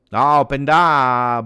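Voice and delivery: loud, slowed "No, Openda"; slow emphatic cry. Real, not acted. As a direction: lean into the name. Reaction to Openda's play.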